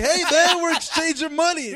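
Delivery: high goofy dealer voice; squeaky panicked-dealer impression; high mock dealer voice. Friends acting out the drug deal.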